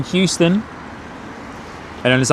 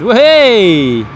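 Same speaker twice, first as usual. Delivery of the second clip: higher and louder, drawn-out surprise; astonished whoa; 6 semitones higher, 4 dB louder, much slower than usual. Real, not acted. Spotter watching a plane abort its landing, amazed. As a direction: let the whoa ring out in amazement. Go-around happening live.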